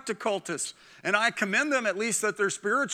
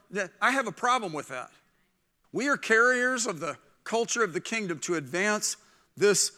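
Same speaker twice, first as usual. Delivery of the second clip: usual speaking voice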